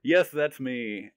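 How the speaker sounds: yelped high, then slow; eager answer. Retold or imitated. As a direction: jump in eagerly, then savor it. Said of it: "And I go".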